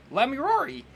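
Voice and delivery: excited exclamation. Real, not acted. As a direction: cry out the name thrilled. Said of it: "repeats as exclamation".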